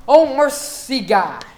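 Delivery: acted exclamation. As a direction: put feeling in it. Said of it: "Show me what the words say".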